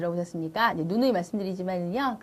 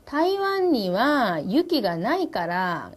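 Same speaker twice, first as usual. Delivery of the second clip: slow Japanese line; 2 semitones higher, much slower than usual. Retold or imitated. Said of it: "하야시가".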